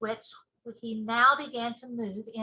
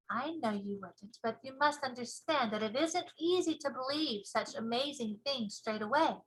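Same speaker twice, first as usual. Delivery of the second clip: put-on little girl voice. Sophie gentle.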